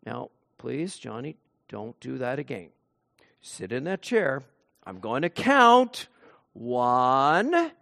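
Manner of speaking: mildly calm dad counting slowly to three; gentle father. Retold or imitated. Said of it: "the father would say".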